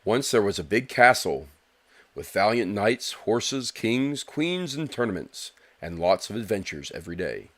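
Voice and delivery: bold storybook announcer read. Pretend. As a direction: announce it like a grand trailer. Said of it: "I'm gonna do my best announcer voice".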